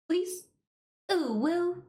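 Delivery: high, cutesy mock shoujo squeal; very high-pitched anime cooing; hyper shoujo. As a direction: put on an over-the-top shoujo voice. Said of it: "hyper shoujo, like, bruh".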